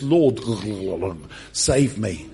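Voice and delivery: gurgling cry for help, broken by water; mock drowning. Drowning Peter to Jesus, mock gurgling plea. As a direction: gurgle mid-plea as if going under. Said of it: "He's drowning and he says".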